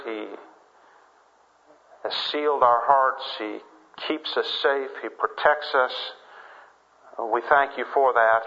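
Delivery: unhurried spoken prayer with pauses; congregational prayer. Real, not acted. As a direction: address God in measured, reverent phrases.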